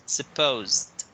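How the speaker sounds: supposed with a clear final d; teacher models past tense supposed; model word. Shown as a demonstration. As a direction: end supposed on a crisp d. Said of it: "past tense is just gonna be with added the sound".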